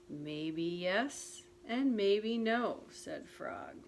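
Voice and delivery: put-on gentle storybook narration for children; reading a picture book aloud to listeners; story reading. A narrator's reading. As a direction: read it like a bedtime story. Reads Frog and Toad story aloud.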